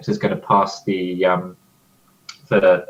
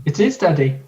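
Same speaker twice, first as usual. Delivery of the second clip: higher, acted daughter talking to daddy; 5 semitones higher than usual. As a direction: play the daughter in a raised pitch. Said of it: "you gotta do a voice".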